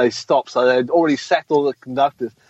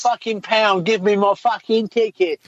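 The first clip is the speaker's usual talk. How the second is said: put-on high, dragged-out drunken-style demands; hammed-up aggrieved passenger; mock abusive passenger; 6 semitones higher than usual. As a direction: play a belligerent passenger demanding a ticket. Acts an abusive bus passenger.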